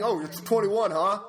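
mock condescending cashier; retold snide attitude. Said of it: "she's fucking condescending".

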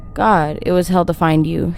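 usual speaking voice

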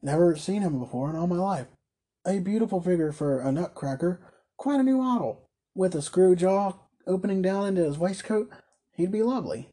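toymaker, admiring. Acted. Caleb admires stranger as toy model.

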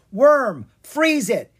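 high, loud command; yelled. Acted. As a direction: yell the order to your dragon. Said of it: "he yelled".

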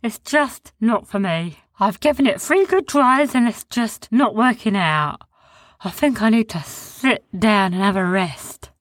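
high, slow creature voice; weary big creature giving up; Sniz voice. A narrator's reading. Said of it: "said Sniz".

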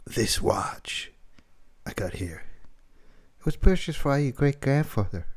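halting Walken read, long pauses; Christopher Walken impression. Host attempting Walken's watch speech, lightly voiced. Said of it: "Christopher Walken".

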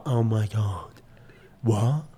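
lightly put-on Essex accent, low-key. Imitating the Essex type, light Essex accent. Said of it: "Or there's the Essex".

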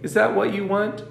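measured, expressive storybook reading; story narration. A narrator's reading. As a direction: read it as a children's story.

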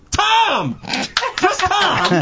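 high, loud announcer call; excited shout. Acted. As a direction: call the name out big. Host hypes guest name.

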